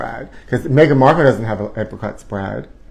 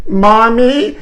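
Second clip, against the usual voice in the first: put-on high childish call; 9 semitones higher, 3 dB louder than usual. Calling out to mother.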